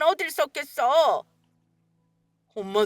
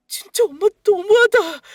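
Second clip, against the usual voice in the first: angry outburst; 9 semitones higher, 7 dB louder than usual. Acted. Son's outburst at his mother.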